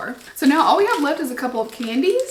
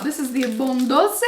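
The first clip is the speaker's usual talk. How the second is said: fake Italian accent. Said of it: "please excuse my fake Italian accent".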